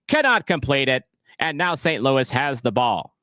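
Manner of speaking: a hint of a vintage radio broadcaster calling the match; 1940s radio announcer. Streamer honoring a chat request with an old-time radio announcer voice. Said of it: "you want nineteen forties radio announcer".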